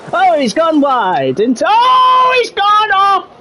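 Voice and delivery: high, building commentator shout; rising alarm into a full shout; excited crash call. Real, not acted. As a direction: erupt as the car goes off. Live commentary as car crashes off track.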